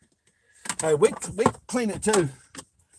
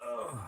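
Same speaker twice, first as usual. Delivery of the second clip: strained grunt while reaching; effort grunt; 10 dB quieter than usual. Real, not acted. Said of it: "Sound like I'm grunting, 'cause I am".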